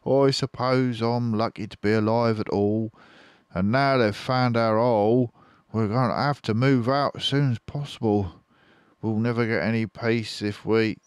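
a hint of worried fox; Mister Fox thinking. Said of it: "he thought".

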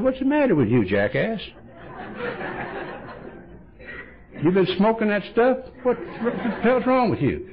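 high, rough mock scolding from the sponsor; exasperated mock scolding; gruff scolding. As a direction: bark it like a fed-up friend.

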